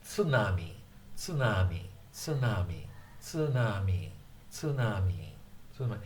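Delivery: tsunami with even stress; flat Japanese. Shown as a demonstration. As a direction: tsunami said level, no beat on any syllable. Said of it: "pronunciation is generally pretty flat".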